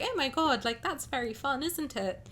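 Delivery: lightly voiced posh English girl; breezy, lightly posh English chatter; a hint of a posh London accent; posh southern English accent. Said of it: "we all talk a bit like".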